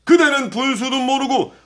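rising, scornful taunting; arrogant general. Acted. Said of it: "크게 웃으며 대답한다".

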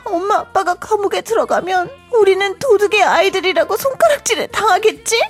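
crying out the fear, words rushing then breaking; tearful panic. Acted. Child fearing parents go to jail, crying. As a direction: sob through the worry.

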